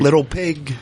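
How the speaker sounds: imitated Philly accent on a movie line. Comedian quoting a Philly Shining parody, Philly accent. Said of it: "The fucking Philly accent".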